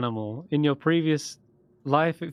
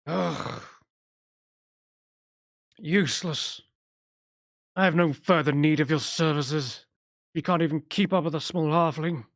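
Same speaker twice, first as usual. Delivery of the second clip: put-on higher, cold, dismissive old mage; disdainful old wizard; 3 semitones higher than usual. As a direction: dismiss the useless servant. Old wizard scorns servant.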